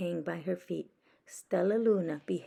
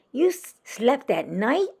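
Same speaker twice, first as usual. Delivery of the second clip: louder stammering gasp; 6 semitones higher, 8 dB louder than usual. Acted. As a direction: gasp it out in disbelief. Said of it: "gasped another".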